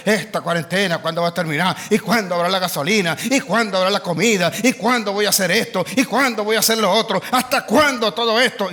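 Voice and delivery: low, fast grumbling questions; mock whining complaints. Preacher mimicking people whining about the quarantine, low and fast.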